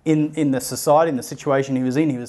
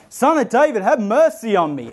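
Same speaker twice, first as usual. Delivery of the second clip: higher, pleading yell over the crowd; yelling louder; 8 semitones higher than usual. Retold or imitated. Beggar yelling louder as the crowd hushes him, high plea. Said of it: "he just yells even louder".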